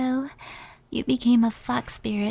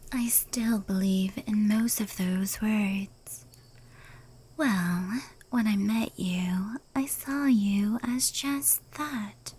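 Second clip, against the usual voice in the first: whisper. Acted. Yokai admitting how it saw humans, whispered. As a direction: let the words barely leave your lips.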